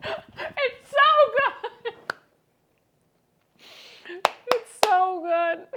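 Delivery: slow, high and loud, laughing in delight; overjoyed. Real, not acted. Cook tasting her first homemade tortellini, overjoyed. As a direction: let the joy burst out slowly. Tastes own pasta, overjoyed.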